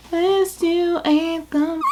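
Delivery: playful slow repeat; drawn-out sing-song. Shown as a demonstration. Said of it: "repeats it drawn out".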